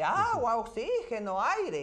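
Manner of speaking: high, loud alarmed calls from a crowd; panicked bystanders yelling for water and air; crowd calling out. Retold or imitated. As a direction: shout for help as the onlookers.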